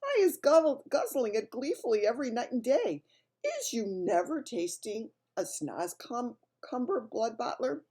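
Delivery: high, eager BFG voice; friendly giant. A narrator's reading. BFG praises the snozcumber to mislead Bloodbottler, high and eager. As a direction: sell the vegetable with bright enthusiasm.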